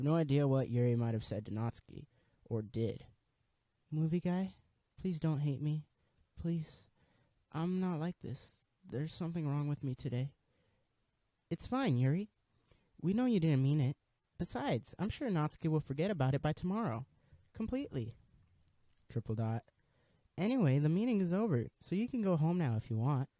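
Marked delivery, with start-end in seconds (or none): 3.9-10.3 put-on pleading shy girl. Yuri voiced pleading. 11.5-23.3 lightly voiced shy club president, sheepish; a gentle high club president apologizing; high girl voice. Club president apologizing to the new member, gentle high voice.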